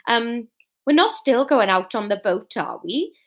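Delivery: put-on Fiona's line in a light Welsh accent. Fiona asking Norman, lightly in Welsh accent. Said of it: "That's how you do Welsh".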